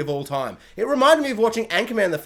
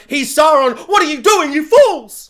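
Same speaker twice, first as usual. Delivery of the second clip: loud, high shout; 6 semitones higher, 9 dB louder than usual. Retold or imitated. Fan shouting at the characters on TV. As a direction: yell at the screen in frustration. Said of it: "I literally screamed at the T V".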